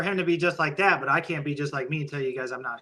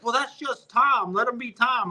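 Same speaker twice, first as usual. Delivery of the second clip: mocking excuse; 6 semitones higher, slower than usual. Mocking people excusing Tom.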